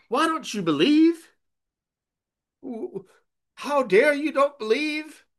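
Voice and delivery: loud, high pretend scolding; mock angry rebuke. Preacher showing what Jesus did not say, mock angry shout. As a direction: bellow a rebuke Jesus never gave. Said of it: "Jesus doesn't get angry and say".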